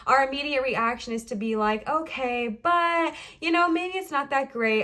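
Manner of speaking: out of breath, gasping between words; running out of air mid-sentence; short of breath. Real, not acted. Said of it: "I feel myself getting short of breath".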